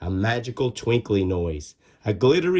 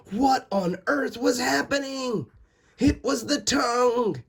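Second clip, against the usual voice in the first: high, puzzled question; surprised; 12 semitones higher than usual. A narrator's reading. Narrator voicing the confused tooth, high surprise. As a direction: wonder aloud in alarm.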